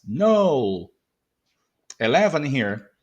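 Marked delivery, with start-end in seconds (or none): 0.1-0.9 no drawn out and falling; stressed final word. Shown as a demonstration. Teacher isolating the stressed word, no drawn out. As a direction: put full weight on no. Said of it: "it's the stress".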